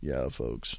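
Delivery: very low, soft voiceover voice. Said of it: "if you need a voiceover".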